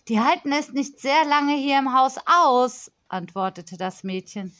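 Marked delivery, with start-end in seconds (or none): 0.1-2.9 put-on higher, bossy little girl complaining into the phone; a pampered child scolding a supplier; spoilt girl on phone. Spoilt girl scolding the supplier on the phone, higher and bossy.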